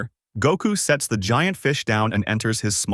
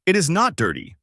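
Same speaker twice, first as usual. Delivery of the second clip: higher, indignant narrated retort; angry mild yell; 7 semitones higher than usual. A narrator's reading. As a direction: protest crossly without real shouting. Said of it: "Bulma got angry and yelled".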